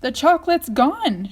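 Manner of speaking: high, loud alarmed shout. A narrator's reading. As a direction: cry out that it vanished. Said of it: "shouted Grandpa Joe".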